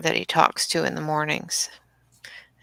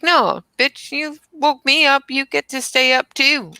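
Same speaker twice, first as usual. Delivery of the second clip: higher, louder mock dog retort; dog sassing its owner, higher and louder; voicing the dog; 7 semitones higher, 3 dB louder than usual. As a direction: talk back as the dog, indignant. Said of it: "It's like".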